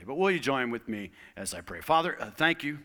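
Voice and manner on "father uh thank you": earnest pastoral prayer. Acted. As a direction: pray over the congregation.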